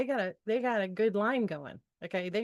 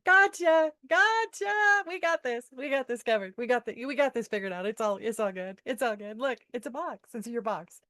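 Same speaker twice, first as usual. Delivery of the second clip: angels teasing her playfully, loud at first; gleeful angels; 2 semitones higher, 3 dB louder than usual. Retold or imitated. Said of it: "they were laughing so hard".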